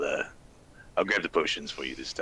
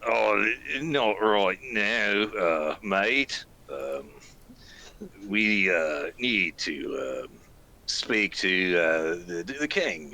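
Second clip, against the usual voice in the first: character voice; 3 semitones higher, much slower than usual. Acted. Player voices character, slow.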